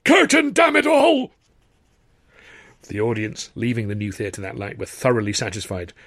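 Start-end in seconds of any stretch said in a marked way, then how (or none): 0.0-1.3 very high, slow strangled plea; drawn-out falsetto moan of agony; tiny moaning voice. A narrator's reading. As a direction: squeal it slowly in pain and exasperation. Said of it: "moaned in a tiny voice".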